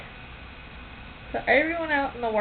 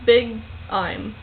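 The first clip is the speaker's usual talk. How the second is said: slow, words in reverse order; backwards speech; much slower than usual. Shown as a demonstration. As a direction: work through it backwards slowly. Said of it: "Tell me something to say backwards".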